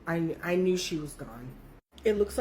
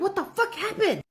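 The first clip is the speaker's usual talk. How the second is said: panicked question; 11 semitones higher than usual. Retold or imitated. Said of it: "I'm like".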